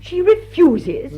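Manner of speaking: aghast, slow repeat of the news; shocked disbelief. Acted. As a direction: repeat it slowly as if you can't believe it. Shocked echo of bad news.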